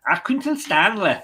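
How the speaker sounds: put-on a laughing, half-hearted stab at an Accrington accent on Accrington Stanley; attempted Accrington accent. Host reading the fixtures, failed Accrington accent. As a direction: tries an Accrington accent and gives up. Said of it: "I can't do the accent".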